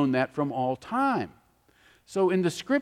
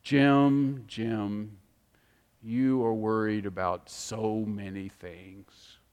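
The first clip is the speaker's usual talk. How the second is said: gentle voice of the Lord; 8 semitones lower, 4 dB quieter, much slower than usual. Retold or imitated. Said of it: "the Lord spoke to me and said".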